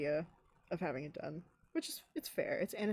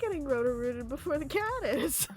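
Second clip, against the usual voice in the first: laughing while talking; 7 semitones higher, 5 dB louder, slower than usual. Real, not acted. Laughing at her own joke.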